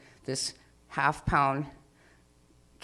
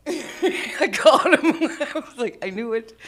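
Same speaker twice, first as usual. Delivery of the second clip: much higher and louder, slowly crowing with laughter; gleeful triumph; 8 semitones higher, 7 dB louder, slower than usual. Real, not acted. Catching the cat pretending to be stuck, gleefully triumphant. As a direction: crow the victory with glee.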